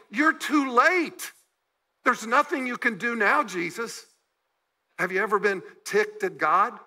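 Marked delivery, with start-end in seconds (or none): 0.1-4.1 loud, slow, hurt outburst at Jesus; angry protest. Acted. Mary and Martha rebuking Jesus, angry. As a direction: let the anger spill out slow and loud. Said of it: "they are mad at Jesus".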